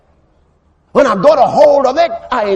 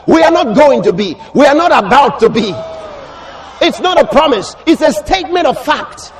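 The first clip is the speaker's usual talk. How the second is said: punchy, declamatory sermon delivery; forceful preacher's proclamation; emphatic preaching. Real, not acted. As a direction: drive each phrase home to the congregation.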